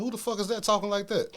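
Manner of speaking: high, incredulous question; retold disbelief. Retelling asking Carol about the rapper, in loud disbelief. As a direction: ask Carol as if you can't believe the voice.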